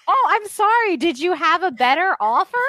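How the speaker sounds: high mock-sweet sarcasm, pitched well up; sarcastic sass. Leslie sneering at her rescuer, high sarcastic tone. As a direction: toss it off like a snarky villain. Leslie sassing Supergirl in helicopter.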